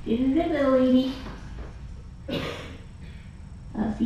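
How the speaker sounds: soft, hushed farewell to the cat; saying goodbye to a beloved foster cat, softly; tender goodbye to a cat. Real, not acted.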